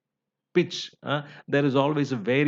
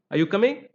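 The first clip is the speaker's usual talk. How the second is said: COMING lifted high at the end; rising tone; 5 semitones higher, 3 dB louder, faster than usual. Shown as a demonstration. Teacher giving a question example, rising tone. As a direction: sweep up on COMING. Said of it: "rising tone is used".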